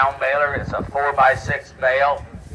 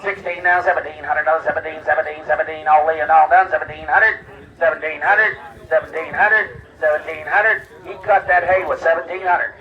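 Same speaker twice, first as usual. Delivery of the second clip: rapid auctioneer bid chant. Real, not acted. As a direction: rattle off the bids like a livestock auctioneer.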